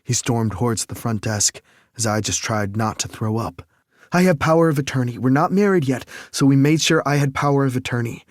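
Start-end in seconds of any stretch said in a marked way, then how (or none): 4.1-8.2 fast, high, loud insistence; demanding his rights; insistent. Acted. Insisting at front desk.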